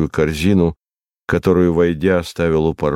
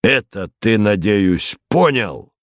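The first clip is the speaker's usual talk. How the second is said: a theatrical threat, ending on a raised sharp question; lightly voiced menacing rogue; 2 semitones higher than usual. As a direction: play a rogue lightly warning a child. Voices Tyburtsiy threatening the boy.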